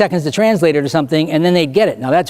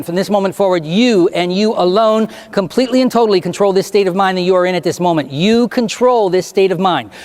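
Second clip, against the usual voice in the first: deliberate, emphatic hypnotic suggestion; firm, measured hypnotist's instruction; stage hypnotist; 2 semitones higher than usual. Real, not acted. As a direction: drive each suggestion home with stretched key words. Gives closing hypnotic suggestions.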